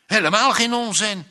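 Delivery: insulted wife protesting; offended. A narrator's reading. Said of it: "zei Maaike beledigd".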